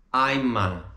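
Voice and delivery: "I'm a" linked as "eye-ma"; joined words. Shown as a demonstration. Teacher shows words joining, "I'm a" linked. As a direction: carry the m of I'm into a. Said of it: "essa frase juntando, né, as palavras".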